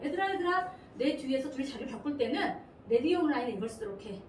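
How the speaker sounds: lightly voiced bossy order; commanding verb. Verb ordering the words behind it, mildly commanding. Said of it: "앞에 있는 동사가 명령합니다".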